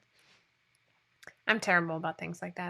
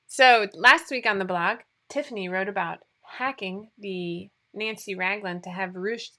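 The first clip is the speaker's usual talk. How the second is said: newscaster voice. Acted. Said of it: "This is my newscaster voice".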